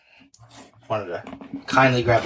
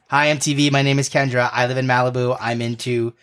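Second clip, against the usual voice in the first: put-on Valley Girl voice. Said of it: "my best Valley Girl impression".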